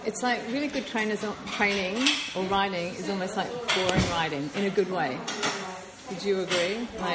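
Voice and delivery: talking with mouth full; words round a bite of food; chewing while talking. Real, not acted. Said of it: "please excuse the eating".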